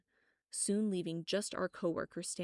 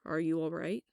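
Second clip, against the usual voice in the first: cautious; 4 dB louder than usual. A narrator's reading. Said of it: "his voice cautious".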